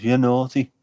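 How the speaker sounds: a thicker Liverpool Scouse lilt on "You're naughty"; proper Scouse accent. Pretend. Teasing the Red Arrows in a Scouse accent, broad Scouse. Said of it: "In a proper Scouse accent".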